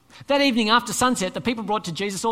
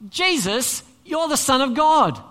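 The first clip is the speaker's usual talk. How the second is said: evil spirit calling out; 5 semitones higher, 5 dB louder, slower than usual. Acted. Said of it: "this evil spirit says what?".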